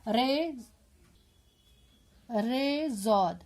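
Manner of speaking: each letter name drawn out slowly for the class; slow, deliberate letter-by-letter reading; spelling out slowly. Shown as a demonstration. Teacher spelling the symbol for pupils, slowly. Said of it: "جیسے آپ کو ایک مثال دیے".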